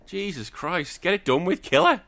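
building from a relieved sigh to a gleeful yell; exasperated relief. Retold or imitated. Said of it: "I was like".

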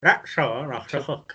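talking around a mouthguard; words mushed by a mouthguard; wearing a mouthguard. Real, not acted. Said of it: "whoever's reading their saying needs to put the mouth guard in".

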